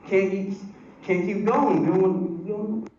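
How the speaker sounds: high, flustered stammer; mock panic as the condom breaks; hammed-up panicked boyfriend; panicked guy. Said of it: "You're like".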